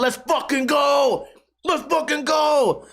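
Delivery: high, drawn-out battle cry; comic fired-up war cry; hyped fighting chicken. Acted. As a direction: yell it eager for the next round. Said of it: "It might just be going".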